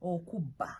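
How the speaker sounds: okuba with a firm, doubled B; okuba, hard emphasized b; double B. Shown as a demonstration. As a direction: hold the B in okuba before releasing it. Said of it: "B B A".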